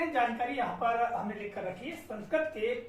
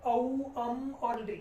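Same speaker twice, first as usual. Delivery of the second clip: slow long vowels; slower than usual. Shown as a demonstration. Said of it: "दीर्घ जो स्वर है इसमें दो मात्रा काल का".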